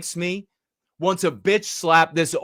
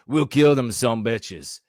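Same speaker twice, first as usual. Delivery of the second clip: tough redneck chief; 6 semitones lower than usual. Pretend. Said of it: "comes out of his mouth is".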